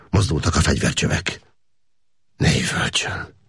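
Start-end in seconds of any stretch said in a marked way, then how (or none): 2.4-3.3 urgent whisper. A narrator's reading. Káptalan hushing the shouting prisoner, whispered. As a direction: hush him under your breath. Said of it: "suttogta Káptalan".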